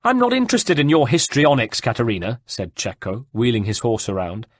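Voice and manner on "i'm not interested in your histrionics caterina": high, loud dismissal easing off; contemptuous shout. A narrator's reading. Cecco answers Caterina's defiant display, contemptuous shout. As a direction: brush her off in a raised voice.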